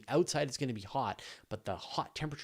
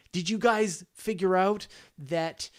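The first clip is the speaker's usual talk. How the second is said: slow, drawn-out eager question, higher and louder; 8 semitones higher, 7 dB louder, slower than usual. Pretend. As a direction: lean in like a keen interviewer grilling an alien. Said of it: "we'd wanna ask them".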